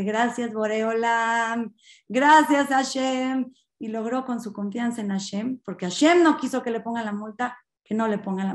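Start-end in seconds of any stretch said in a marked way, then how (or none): 0.0-3.5 drawn-out acted thanks, swelling on the repeat; grateful prayer. Driver thanks God after escaping fine, grateful call. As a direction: call thanks to heaven, stretching the words. Conductor agradece mirando al cielo.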